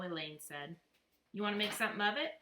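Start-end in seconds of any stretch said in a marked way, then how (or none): 1.3-2.4 a fast, louder six-year-old playing tough; tough guy voice. Little boy to girls, mock tough guy. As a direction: kid puffing himself up, fast and loud. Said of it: "in his best tough guy voice".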